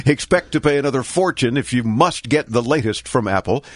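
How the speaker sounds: ordinary talk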